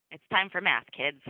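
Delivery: a hint of a stern teacher; teacher waking class. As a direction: call out to wake sleepy kids.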